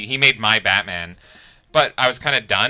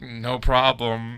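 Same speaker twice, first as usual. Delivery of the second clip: slow, drawn-out awkward reassurance; awkward reply; much slower than usual. Retold or imitated. Imitating an artist answering a sobbing fan, awkward and slow. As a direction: stretch it out, unsure what to do.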